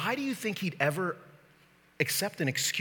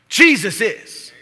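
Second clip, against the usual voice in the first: slow, loud, high proclamation; emphatic shout; 6 semitones higher, 14 dB louder, much slower than usual. Real, not acted. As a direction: proclaim it forcefully, stretching the words. Preacher's shouted answer to the excuse.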